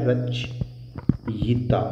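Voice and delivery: रचयिता said slowly and carefully; slow correct word. Shown as a demonstration. Teacher slowly gives students the correct रचयिता. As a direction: slowly set out रचयिता syllable by syllable. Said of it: "जबकि सही होता है".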